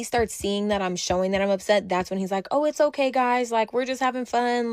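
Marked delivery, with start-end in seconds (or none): 2.5-4.7 higher, light placating voice; smooth it over, mock-cheerful; imitated peacemaker. Friend trying to mitigate the situation, imitated placating tone. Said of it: "he's trying to, to mitigate".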